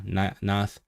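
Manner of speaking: NATH with the "eye" vowel flattened to "ah"; I becoming A. Shown as a demonstration. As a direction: show "nath" with a single open "a" vowel. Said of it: "The I becoming a".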